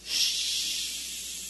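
stronger shushing shh. Real, not acted. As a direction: hush them a bit harder. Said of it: "a little bit louder".

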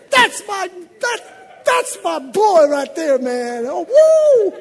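high, loud shout of pride; proud yelling. Real, not acted. Father watching his son's sack on TV, yelling with joy.

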